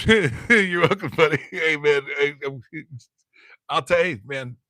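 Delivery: high, loud cartoon dad voice with laughs; Peter Griffin. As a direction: do the goofy Peter Griffin chuckle-talk. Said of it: "I sound like Peter Griffin".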